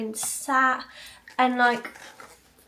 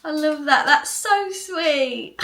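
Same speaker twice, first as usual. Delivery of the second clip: slow, drawn-out and higher, louder; touched; 4 semitones higher, 8 dB louder, much slower than usual. Real, not acted. Touched and drawn out, telling viewers Dan's news is sweet. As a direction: savour every word, genuinely touched. Dan recognised at Costa.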